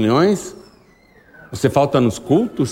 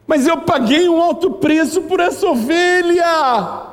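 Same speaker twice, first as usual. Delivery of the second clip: much higher, slow, shouted plea; anguished outcry; 12 semitones higher than usual. Acted. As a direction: cry it out as a grieving owner. Jesus voiced, crying out over sheep.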